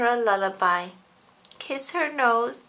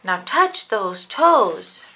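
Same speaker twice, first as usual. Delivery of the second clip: slow, louder mock fitness coach; exercise coach; 7 dB louder, much slower than usual. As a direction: call out the stretch like a coach. Pretend exercise lesson.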